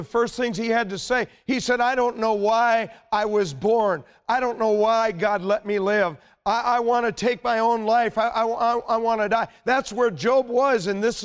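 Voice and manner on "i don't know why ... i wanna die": higher, louder anguished plea; crying out. Retold or imitated. Preacher voicing Job's despair, higher and louder crying out. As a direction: cry out in despair as Job. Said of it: "he's crying out still for their pity".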